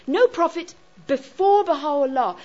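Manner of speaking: measured weight on "No" and "before"; stress on No and before. Shown as a demonstration. Teacher repeating the key phrase, measured stress on "No" and "before". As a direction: set "before" apart after a firm "No". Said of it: "that's where that emphasis naturally falls".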